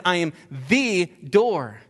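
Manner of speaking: "I am the door" drawn out slowly, stressing "the"; very slow, weighty "the door"; slow emphatic claim. Shown as a demonstration. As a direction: lay each word down deliberately. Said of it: "And he says".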